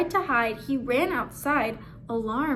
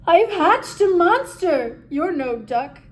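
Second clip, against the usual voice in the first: higher and louder, shocked screech; 4 semitones higher, 8 dB louder than usual. Acted. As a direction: screech in horror at the hatchling. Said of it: "Quack screeched".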